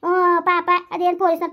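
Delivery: irritated retort. Acted. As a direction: snap back at her to shut up. Snapping back in a quarrel. (ಸಿಟ್ಟಿನಿಂದ ಗದರಿಸುವುದು)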